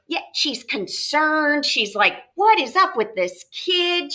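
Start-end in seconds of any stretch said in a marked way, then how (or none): 2.3-4.1 higher, slow, incredulous; appalled mom's aside. Retold or imitated. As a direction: ask it like a shocked parent. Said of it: "She's a little appalled".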